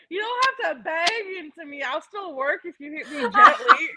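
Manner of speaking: lightly voiced sassy singing bowl; a touch of sass, playful scolding. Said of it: "She's like".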